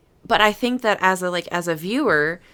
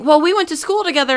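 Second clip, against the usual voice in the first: high, fast, louder classmate; lightly voiced old classmate; 10 semitones higher, 6 dB louder, faster than usual. Old classmate meeting her again, high fast insistence. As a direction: insist brightly. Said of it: "they were like".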